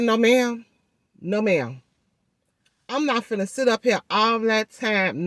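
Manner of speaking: retold emphatic refusal, opening high; firm refusal. Patient refusing to wait for the surgeon, firm refusal. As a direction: put your foot down, retelling it. Retells refusing the receptionist's delay.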